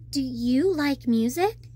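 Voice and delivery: slow, careful question; cautious question put to a shark; asked carefully. Acted. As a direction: ask gently so nothing startles. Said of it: "I asked carefully".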